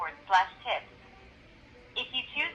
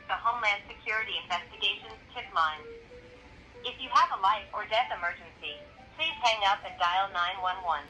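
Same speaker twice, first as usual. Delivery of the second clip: recorded phone menu over the line; automated hotline recording. Real, not acted. Automated ICE tip line call.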